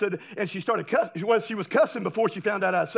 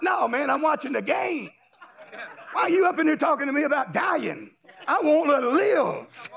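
annoyed neighbor; 4 semitones higher than usual. Retold or imitated. Neighbor at door answering.

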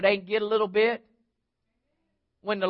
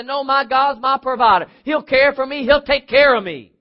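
high, loud declaration of faith; defiant shout; 5 semitones higher, 8 dB louder than usual. Acted. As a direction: shout back at the doubters, building. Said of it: "you need to shout all the more".

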